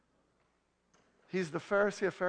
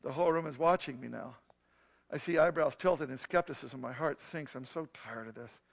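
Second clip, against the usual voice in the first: a calm, even storytelling voice; story narration; 3 semitones lower than usual. A narrator's reading. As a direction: tell the story like a reading. Reads his story aloud.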